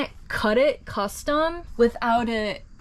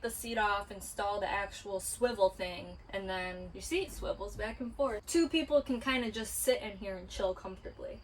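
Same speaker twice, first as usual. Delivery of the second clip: out of breath, talking too long; winded, breathy between words; 9 dB quieter than usual. Real, not acted. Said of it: "really out of breath".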